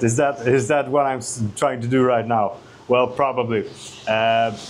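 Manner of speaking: speaking while smoking; cigarette in mouth. Real, not acted. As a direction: talk round a cigarette between puffs. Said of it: "here I stand with a cigarette in my mouth".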